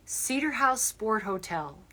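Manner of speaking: Cedar House Sport Hotel said slowly and clearly. Shown as a demonstration. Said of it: "C E D A R".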